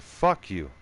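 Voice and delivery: retold shout. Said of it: "He's like".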